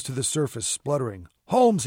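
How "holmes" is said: high, loud shout of a name; calling out. A narrator's reading. Mate in the water to Holmes, calling out. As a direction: call up sharply from the water. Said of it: "he called".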